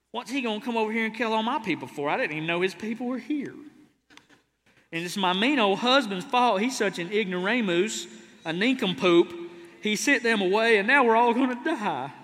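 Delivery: mock whiny complaining woman, fast; hammed-up pouty rant; pouting wife. Preacher voices pouting woman.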